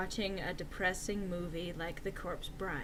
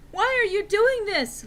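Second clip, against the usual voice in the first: higher, louder hammed-up anger; overdone angry plea; angry question; 11 semitones higher, 6 dB louder than usual. A narrator's reading. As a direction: demand an answer, upset. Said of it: "Lupin said angrily".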